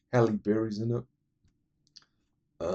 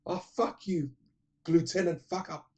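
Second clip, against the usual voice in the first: put-on high, sneering teenage girl voice; a high, cheeky teen daughter's comeback; mock bratty teen; 9 semitones higher than usual. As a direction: spit it back at dad like a brat. Daughter cursing at father in retold scene.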